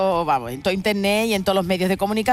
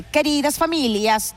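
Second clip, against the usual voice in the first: slow, raised mock Italian accent; acento italiano; 4 semitones higher, slower than usual. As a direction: read the mayor's letter in an Italian accent. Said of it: "tiene con el acento italiano". (acento italiano imitado, lento y más agudo)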